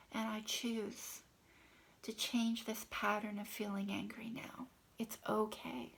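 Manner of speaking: hushed, intimate affirmation read; tapping affirmation. Shown as a demonstration. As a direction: murmur it gently to yourself while tapping. Tapping script demo.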